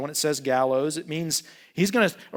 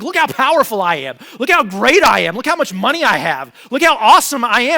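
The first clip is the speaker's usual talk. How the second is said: loud, higher, bragging self-praise; boastful Haman; 5 semitones higher, 11 dB louder than usual. Retold or imitated. Haman boasting to his wife and friends, loud and proud. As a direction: puff yourself up like a pompous official. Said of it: "He's like".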